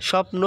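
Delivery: স্বপ্ন said as shopno, no b sound; স্বপ্ন spoken clearly as "shopno", the ব dropped; ব ফলা silent. Shown as a demonstration. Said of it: "স্বপ্ন উচ্চারণ কি হয়েছে?". (স্বপ্ন উচ্চারণে ব ফলা বাদ, "শপ্নো")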